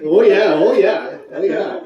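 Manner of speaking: mock Canadian. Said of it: "that was a little too Canadian for me".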